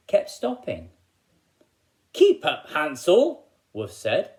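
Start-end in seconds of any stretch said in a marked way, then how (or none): 2.1-3.4 high, loud call ahead. Acted. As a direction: shout back to Hansel to hurry. Wolf calls children on the walk.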